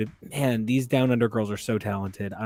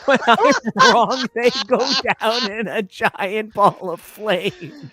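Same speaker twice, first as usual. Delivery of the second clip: high, loud, slow, dramatic boast; dramatic proclamation; 10 semitones higher, 6 dB louder, slower than usual. Retold or imitated. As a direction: declaim it like an epic prophecy.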